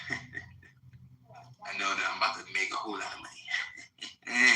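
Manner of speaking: slow, laughing through the words. Real, not acted. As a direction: chuckle it out slowly, savoring it. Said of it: "I'm smiling from ear to ear".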